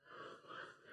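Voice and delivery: soft, half-hearted call-back; a timid crowd reply with no lift; flat mumbled answer. Real, not acted. Congregation answering the pastor's cue, flat and soft. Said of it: "you can do it with the inflection".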